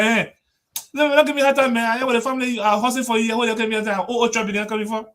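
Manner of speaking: mock scolding. Chairman scolding.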